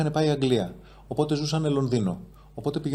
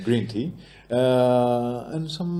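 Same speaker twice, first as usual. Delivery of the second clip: hesitant English with a South African lilt; South African accent; much slower than usual. Shown as a demonstration. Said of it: "Έχεις νοτιοαφρικανική προφορά στα αγγλικά σου".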